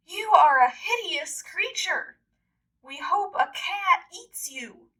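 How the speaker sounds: siblings' taunt. Acted. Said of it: "his siblings said".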